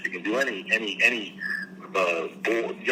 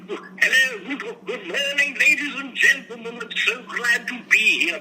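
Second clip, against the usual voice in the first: much higher, theatrical greeting with rolled R's; hammed-up matinee idol entrance; mock John Barrymore; 12 semitones higher than usual. Actor sweeping into the studio, hammed-up grand greeting. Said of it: "He'd roll his R's".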